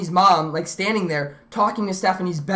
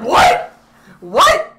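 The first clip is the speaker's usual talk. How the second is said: surprised; 3 semitones higher, 5 dB louder than usual. Retold or imitated. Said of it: "And I'm just like".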